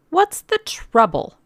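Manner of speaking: high, loud worried call; crying out. A narrator's reading. Woman in the crowd questions the organizer, crying out. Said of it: "a woman cried".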